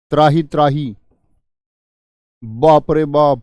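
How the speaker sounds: loud, drawn-out cry of distress; panicked cry. Shown as a demonstration. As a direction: call out for help in panic. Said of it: "दुख हो रहा है". (ज़ोर से घबराई हुई पुकार)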